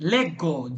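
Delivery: "Leggo" said with a hard g before the o; hard g pronunciation. Shown as a demonstration. Teacher models the word for a student, "Leggo" with hard g. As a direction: say "Leggo" as LEG-go, falling at the end. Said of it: "এটা কি হবে উচ্চারণটা".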